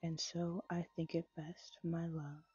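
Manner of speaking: measured, gentle poetry recital; poem reading. A narrator's reading. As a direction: read the verses unhurried, savoring each line. Reads Dorothy Parker poem aloud.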